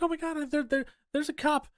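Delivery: high, fast airhead voice; mock ditzy heroine. Host mocking the heroine finding a cop, high fast airhead voice. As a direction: rush it like a silly relieved victim.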